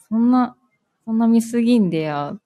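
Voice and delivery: Hiroshima dialect scolding. Shown as a demonstration. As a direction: playfully scold a boyfriend, Hiroshima-style. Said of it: "じゃあその彼氏が、". (広島弁で彼氏を軽く叱る)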